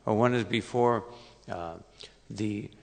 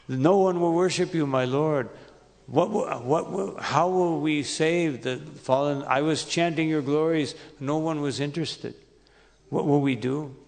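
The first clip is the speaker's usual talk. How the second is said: higher, pleading voice of a distressed sage; mild retold dismay; 3 semitones higher than usual. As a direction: plead with the Lord, lightly acted alarm. Acted sage's despairing plea to Krishna.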